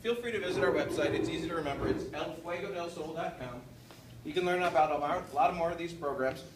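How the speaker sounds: talking with mouth full. Real, not acted. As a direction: speak through a mouthful of apple. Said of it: "Pardon me for talking with my mouth full".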